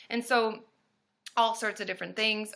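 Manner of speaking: usual speaking voice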